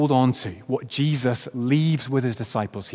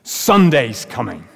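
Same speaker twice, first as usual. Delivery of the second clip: congregation yells back; 6 dB louder, slower than usual. Retold or imitated. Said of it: "all five hundred of us in that church yelled back".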